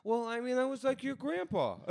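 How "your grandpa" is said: high, loud, laughing disbelief; laughing reply. Retold or imitated. Retelling his answer to the girl, high and laughing. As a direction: blurt it out through laughter.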